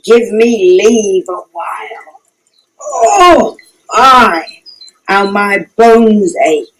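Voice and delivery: weary, breathless complaining; puffing after a long trip; out of breath. Acted. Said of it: "I am out of breath".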